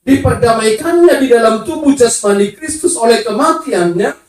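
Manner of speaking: drawn-out, declaimed Bible verse; slow, weighty pulpit reading; emphatic scripture reading. Acted. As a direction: proclaim the verse slowly to the congregation.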